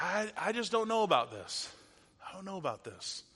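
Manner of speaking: unsure, reluctant to buy it; skeptical. Acted. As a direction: voice mild doubt, dropping away at the end. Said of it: "maybe your skepticism starts to kick in".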